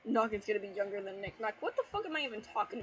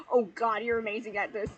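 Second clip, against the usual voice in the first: breathless exclaim; 7 dB louder than usual. Acted. Acted character line in fanfic.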